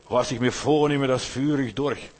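determined choleric. Retold or imitated. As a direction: stamp out each word like a man who will not yield.

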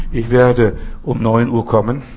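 slow, put-on voice of a thief announcing himself; mock thief announcing. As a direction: play the thief politely giving his arrival time, slowly. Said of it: "Der Dieb wird sich auch nicht ankündigen".

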